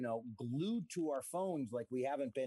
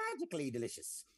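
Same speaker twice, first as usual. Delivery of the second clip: ad jingle voice; faster than usual. Pretend. Cereal ad slogan voice.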